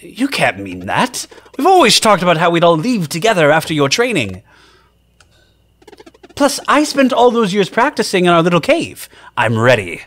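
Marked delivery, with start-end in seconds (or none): 1.6-10.0 high, bright-spirited cook voicing Garl; bouncy, eager friend arriving; cheerful high character voice. Garl voice in dialogue.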